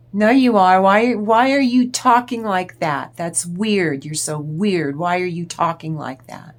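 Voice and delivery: loud, annoyed mock demanding; imitating an exasperated narcissist's outburst; exasperated shouting partner. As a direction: hammer her with irritated questions. Acted narcissist confronting her.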